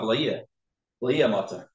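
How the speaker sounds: V'lo yihya run together, the yud swallowed; slurred quick version. Retold or imitated. A teacher imitates fast davening, the yud swallowed. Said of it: "If you say it quickly".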